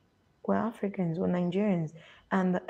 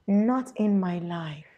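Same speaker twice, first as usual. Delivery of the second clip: Nigerian mother; 5 dB louder, slower than usual. Retold or imitated. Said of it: "That is how they speak".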